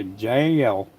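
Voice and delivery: "Jail" stretched in a mild imitated country drawl; a hint of Southern country accent on "Jail". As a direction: lightly mimic a toddler's country "Jail". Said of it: "like, with a real country accent".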